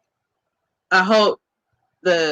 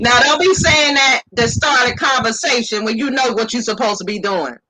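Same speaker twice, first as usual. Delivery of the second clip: scolding call-out; 3 semitones higher than usual. Real, not acted. Scolding brothers about pickup lines.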